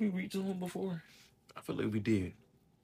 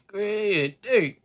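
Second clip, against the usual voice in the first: laughing; 4 semitones higher, 10 dB louder than usual. Real, not acted. Laughing loudly.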